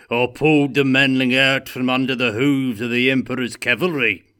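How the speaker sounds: shouting. A narrator's reading. Gotrek shouting his boast to the room. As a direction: bellow it across the inn. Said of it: "shouted Gotrek".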